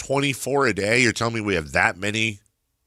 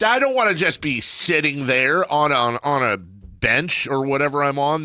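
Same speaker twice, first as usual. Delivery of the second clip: retold protest; 6 semitones higher, 4 dB louder than usual. Acting out his protest to doctor.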